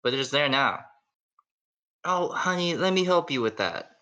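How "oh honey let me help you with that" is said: fussing mom. Acted. Mom treating son's scratch.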